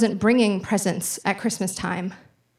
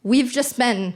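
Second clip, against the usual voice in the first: stunned disbelief; 5 semitones higher, slower than usual. Retold or imitated. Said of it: "I was like".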